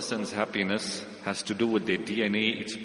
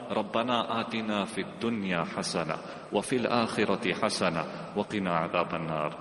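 quick Quranic recitation; 2 semitones lower, much faster than usual. Acted. Quoting Quranic dua.

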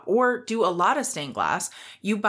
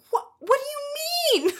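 high, slow disbelieving squeak; incredulous. Retold or imitated. Teen baffled by her boss's complaint, high incredulous squeak.

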